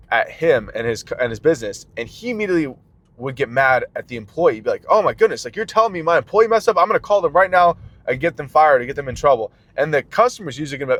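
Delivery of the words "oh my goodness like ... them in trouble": mock outrage. Boss acting outraged at employee.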